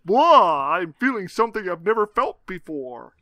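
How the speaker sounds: Dracula voice. Pretend. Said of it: "this new Dracula".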